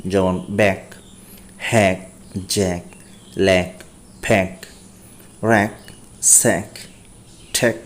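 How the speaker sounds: "ব্যাক" with an open a sound, like back; English words read aloud for practice. Shown as a demonstration. Teacher reading four-letter words to the class, clearly. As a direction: read each word in the list separately with a pause after it. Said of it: "চার বর্ণের শব্দগুলো দেখব".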